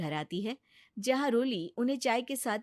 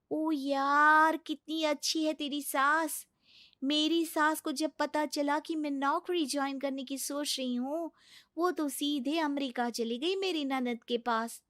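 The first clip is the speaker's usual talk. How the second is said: higher, bubbly office friend; chatty colleague; 5 semitones higher than usual. Acted. Office friend asking Roli about her baby, bubbly and higher. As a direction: gossip brightly with a coworker.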